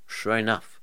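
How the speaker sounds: ordinary delivery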